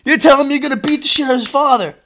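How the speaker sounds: high, loud mock disbelief, laughing; flabbergasted. Son reacting to dad's wild threat, flabbergasted. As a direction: protest in squeaky amazement, then rush it. Retelling his shocked reaction.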